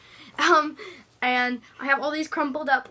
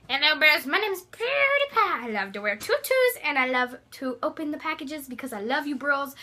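a hint of a hyped vlogger greeting his bros; PewDiePie impression. Drag king doing a mild PewDiePie voice for her friend. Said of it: "Be PewDiePie".

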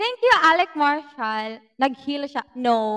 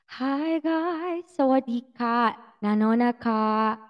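echo voice; 3 semitones lower, slower than usual. Pretend. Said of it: "Lagyan ba natin ng echo?".

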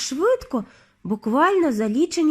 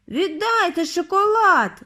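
put-on high, panicky boy's cry; suddenly suspicious, wail it out; 8 semitones higher, 3 dB louder, slower than usual. A narrator's reading. Bruno wails at the witch for his chocolate, high. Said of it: "заволав Бруно".

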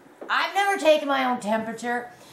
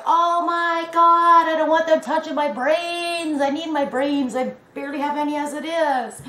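mock panic; 4 semitones higher, 3 dB louder than usual. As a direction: ham up the panic about the nasal swab. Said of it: "I'm freaking out".

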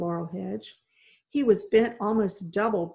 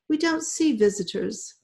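a lightly voiced, higher nervous old woman; chattering old lady; 4 semitones higher, 3 dB louder than usual. A narrator's reading. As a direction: chatter it out like a frail recluse. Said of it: "she chattered".

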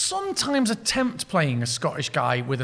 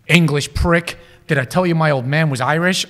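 louder, lightly acted movie tough guy; American henchman; 6 dB louder than usual. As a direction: play an American guy taunting his captive. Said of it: "This, uh, American guy".

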